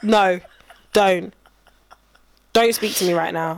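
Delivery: low, terse refusals with long pauses; restrained mock anger. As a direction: play a mum holding her temper. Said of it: "trying not to be angry".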